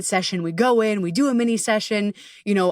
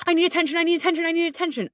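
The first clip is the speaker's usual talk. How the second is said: high, fast, whiny repeated plea; childlike neediness; 9 semitones higher, much faster than usual. Retold or imitated. Voicing anxiety as a needy child, high and whiny. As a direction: beg for attention like a needy little kid. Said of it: "manifests as a childlike".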